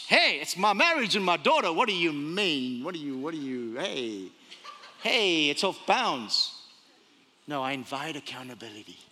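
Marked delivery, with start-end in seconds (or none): 0.1-6.5 sputtering protest that drops low and slows; mock defensive. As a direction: act affronted, stumbling into a low warning. Acts out defensive reply to friends.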